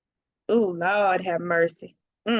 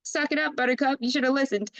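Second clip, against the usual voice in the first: smug scolding; 5 semitones higher, much faster than usual. Retold or imitated. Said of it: "And Scorpio's like".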